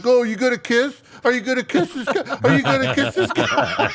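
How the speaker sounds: high-pitched, goofy egging-on voice; playful high goading, close to cracking up; mock teasing taunt. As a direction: squeal it teasingly through rising laughter. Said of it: "they were just like".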